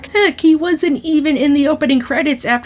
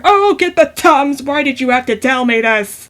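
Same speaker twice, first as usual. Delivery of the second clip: mock Italian-American. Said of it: "I'm not doing this accent on purpose".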